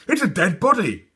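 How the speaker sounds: put-on high, loud, panicky girl's cry; shouting in alarm. A narrator's reading. Scared girl shouts about the body. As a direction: Sophie shouts her discovery in fright. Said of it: "shouted Sophie".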